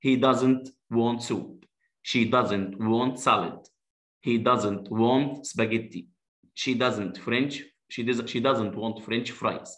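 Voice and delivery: slow, clear negative drill. Shown as a demonstration. Teacher modelling doesn't, slowly. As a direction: stretch each word out for the kids. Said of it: "هو مش عايز".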